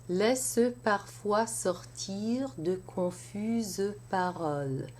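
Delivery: sortir with its vowel held long before the pause; stretched vowel. Shown as a demonstration. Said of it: "sortir it's a little longer".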